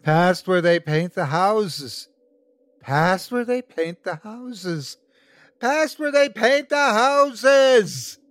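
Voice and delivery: slow chant building to a high scream. A narrator's reading. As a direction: escalate into a crazed, drawn-out shout. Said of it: "repeating himself louder and louder".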